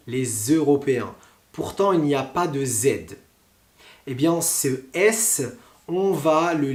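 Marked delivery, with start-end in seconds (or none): 0.1-1.1 "les Européens" said as "lé-z-Européens"; French liaison, the S of "les" voiced as Z before "Européens". Shown as a demonstration. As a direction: sound a clear Z linking "les" into "Européens". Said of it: "tu entends les Z".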